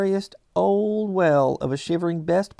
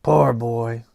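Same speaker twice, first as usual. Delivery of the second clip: crying; 5 semitones lower than usual. Acted. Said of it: "and cried again".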